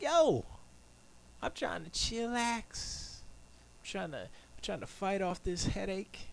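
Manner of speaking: high, slow laid-back voice; mock chill drawl. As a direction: stretch it out all cool and lazy. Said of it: "I'm like".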